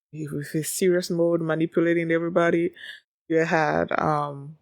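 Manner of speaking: ordinary talk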